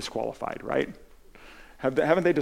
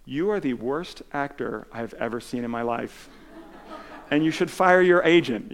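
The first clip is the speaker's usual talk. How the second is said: mock blunt insult. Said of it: "Peter Jackson actually said to him".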